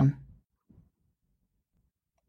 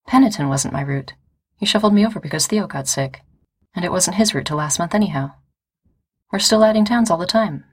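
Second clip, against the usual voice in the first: rising to a shout; 3 semitones higher than usual. Acted. Injured courier rising toward a shout at Ford. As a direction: let the frustration climb until it breaks out. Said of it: "Becca started to shout".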